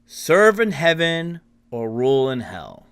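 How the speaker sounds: booming proclamation, lightly voiced; bellowing otherworldly voice. Game master voices the mysterious figure's offer, bellowing lightly. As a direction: intone it as a vast unearthly being. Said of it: "say in its deep bellowing voice".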